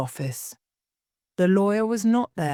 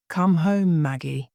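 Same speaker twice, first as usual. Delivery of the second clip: mild anger. Acted. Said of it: "he said angrily".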